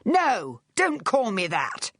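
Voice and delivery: high, agitated refusal; distraught protest. A narrator's reading. Charles refusing Vic's name for him, distraught. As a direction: protest sharply, then stretch the words. Gunman rejects the pet name.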